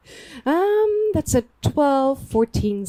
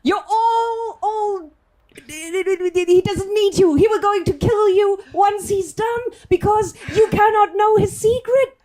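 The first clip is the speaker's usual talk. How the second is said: urgent in-character plea; 4 semitones higher than usual. Acted. Player urging NPC against Flynn.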